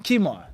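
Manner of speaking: "Khimar" starting on a k, no throat friction; khimar with plain k. Shown as a demonstration. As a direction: say "Khimar" with a hard k, as in KEE-mar. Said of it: "but in general".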